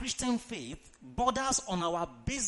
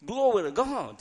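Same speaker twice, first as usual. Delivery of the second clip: 1 loud exclamation; 6 dB louder than usual. Real, not acted. Preacher's exclamation.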